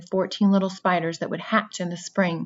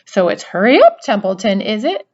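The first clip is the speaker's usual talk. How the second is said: mocking, louder Wilbur imitation; imitating Wilbur; 3 semitones higher, 8 dB louder than usual. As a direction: parody the pig's urgency. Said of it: "He began imitating Wilbur's voice".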